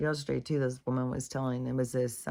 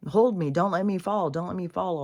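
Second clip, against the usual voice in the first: higher mock plea, easing off; retold pleading; 5 semitones higher, 4 dB louder than usual. Man on the rope begging medicine man, retold pleading. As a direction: plead to be held, lightly acted.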